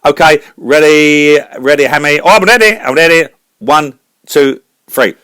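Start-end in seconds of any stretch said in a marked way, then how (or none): 2.2-3.3 eager Scottish brogue; Scottish singer all set to perform; Scottish accent. Acted. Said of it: "a Scottish singer".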